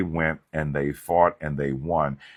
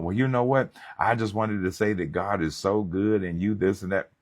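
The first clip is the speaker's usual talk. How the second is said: mocking fake friend; 4 semitones higher than usual. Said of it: "here they come".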